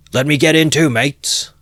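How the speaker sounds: very high, loud call; eager shout. Acted. Young man begging to ride, loud eager shout. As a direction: shout to join in. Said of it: "shouted a young man".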